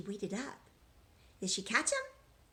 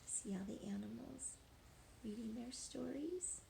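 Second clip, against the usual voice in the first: whispered aside; 11 dB quieter than usual. Real, not acted. Teacher hushing children to look at the picture, whispering. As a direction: whisper it, they're reading.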